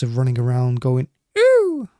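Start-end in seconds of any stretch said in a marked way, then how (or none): 1.4-1.9 overacted anime dub squeal, very high; anime character impression. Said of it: "That was my impression of an anime character".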